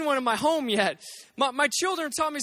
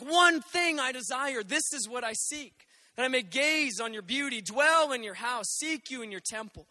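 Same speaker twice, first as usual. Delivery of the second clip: reverent reading; 3 dB quieter than usual. Acted. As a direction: let the verse linger quietly. Quotes David's Psalm.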